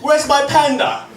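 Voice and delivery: high-pitched, giggling through the mock complaint; laughing queen rant. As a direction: rant as the queen but keep cracking up. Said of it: "yelling at her god".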